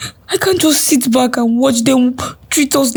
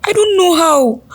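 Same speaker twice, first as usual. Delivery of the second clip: tearful; 3 semitones higher than usual. Acted. Crying while answering her sister. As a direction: voice thick with tears, pleading.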